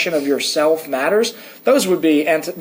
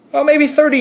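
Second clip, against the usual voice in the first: voice crack; 10 semitones higher, 3 dB louder than usual. Real, not acted. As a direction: voice cracking up high. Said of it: "You just had a terrible voice crack".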